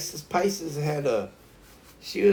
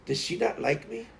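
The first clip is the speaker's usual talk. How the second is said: Itza; 5 semitones higher, 4 dB quieter than usual. Retold or imitated. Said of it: "Itza was like".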